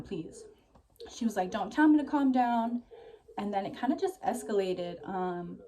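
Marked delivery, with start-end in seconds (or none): 0.0-0.4 whispered please. Retold or imitated. Pleading during a drunk argument. 1.5-2.8 loud, higher angry snap; angry retort. Retold or imitated. Friend snapping back in argument.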